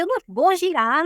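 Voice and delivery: retold stubborn, cross protest; angry refusal. Woman telling the prophet she will not spin, angry. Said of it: "eu tava com raiva daquilo".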